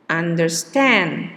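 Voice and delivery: "understand" slow with under-STAND stressed. Shown as a demonstration. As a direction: drag it out, ending on STAND in "understand". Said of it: "is on the last syllable".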